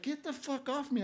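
mock indignant woman. Chick he landed on snaps at him, mock indignation. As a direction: mimic someone giving you grief. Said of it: "she's, like, giving me shit".

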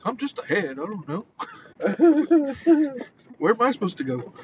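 a lightly voiced baffled head, cracking up; talking head character. Quoting the councilman head from the Mighty Boosh, laughing. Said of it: "He's like".

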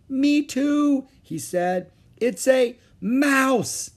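high, loud, triumphant; thrilled realization. A narrator's reading. Jack and Annie solving the riddle together, thrilled realization. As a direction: call out the answer in high delight.

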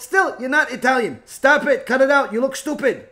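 loud, high, insistent telling-off; acted scolding. Acted listener scolding the rabbi.

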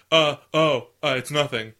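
loud startled start, then unconvincing cover-up; terrible liar. Retold or imitated. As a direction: imitate a very bad liar. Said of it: "He's a terrible liar".

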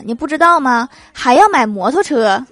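loud scolding father; 瞪眼训斥. Retold or imitated. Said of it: "我老爸一瞪眼睛说". (老爸瞪眼大声训斥)

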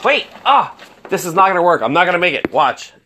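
frantic laughing panic; nervous breakdown. Real, not acted. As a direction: scramble in panic, half laughing. Phone dying, scrambling for charger.

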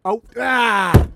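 sudden loud anguished yelp; frustrated cry. Real, not acted. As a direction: cry out at your own slip. Realizes he just swore on stream.

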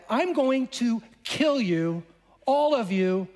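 lightly voiced king laying down a slow threat; annoyed king. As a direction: retell the king's threat with a touch of annoyance. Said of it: "an annoyed king".

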